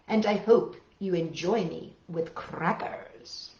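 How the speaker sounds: put-on reading a silly poem to kids; lively read-aloud of a funny poem. Children's librarian reading a silly poem, playful read-aloud.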